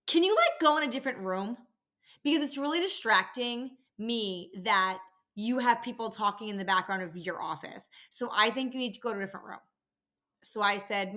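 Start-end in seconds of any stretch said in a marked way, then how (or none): 0.1-9.6 imitating pushy caller. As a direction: make the caller sound entitled and demanding. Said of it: "she says to me".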